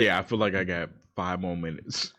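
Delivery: talking while chewing gum; words round a wad of gum. Real, not acted. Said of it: "you're eating it".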